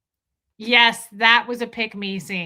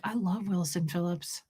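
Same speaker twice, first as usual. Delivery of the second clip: innocent; 4 semitones lower, 6 dB quieter than usual. Retold or imitated. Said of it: "how innocently she says that".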